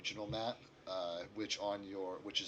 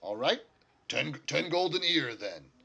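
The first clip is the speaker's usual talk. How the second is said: louder, raised middle falling away at the end; lightly voiced dealmaker; 4 semitones higher, 6 dB louder than usual. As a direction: settle the terms as the character, lightly acted. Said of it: "turns to you all and says".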